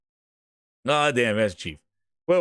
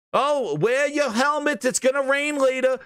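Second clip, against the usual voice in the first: mock wife; 7 semitones higher than usual. Voicing the wife in a skit.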